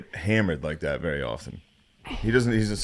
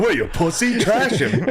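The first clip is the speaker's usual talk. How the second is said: higher, louder goading; pushy host voice; 11 semitones higher, 5 dB louder than usual. Retold or imitated. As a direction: egg him on like a hyped host. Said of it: "he'll be like".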